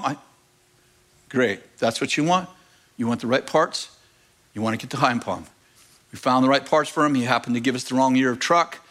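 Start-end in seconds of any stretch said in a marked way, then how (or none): 1.3-5.5 calm reassurance. Retold or imitated. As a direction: soothe the angry man down. Calming the angry customer.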